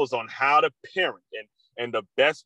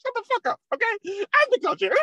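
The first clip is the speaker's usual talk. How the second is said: furious yelling coach; faster than usual. Retold or imitated. Coach screaming at his son after kicking him, furious yell. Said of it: "He says".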